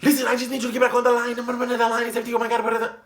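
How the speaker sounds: high, fast, whiny mock voice; mock her snapping into the phone; mocking coworker. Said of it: "she picks up the phone".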